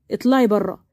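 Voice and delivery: low, controlled order to leave; stern father. Acted. Father stepping in, same order.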